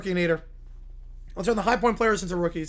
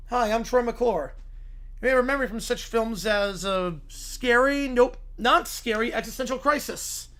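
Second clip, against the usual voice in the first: Troy McClure voice. Acted.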